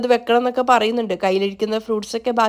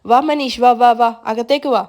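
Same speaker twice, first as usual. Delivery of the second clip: eager welcome; 3 dB louder than usual. Acted. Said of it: "വളരെ സ്നേഹത്തോടെ സ്വീകരിക്കുകയാണ്".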